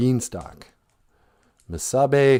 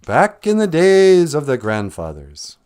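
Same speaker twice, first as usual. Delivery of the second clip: high, louder opening that falls gradually; storyteller opening; 4 semitones higher, 6 dB louder than usual. Acted. Storyteller opens an old tale for the listener, grandly.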